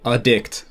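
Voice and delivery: addict stressed on the DICT; stress on second syllable. Shown as a demonstration. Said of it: "we have stress accent".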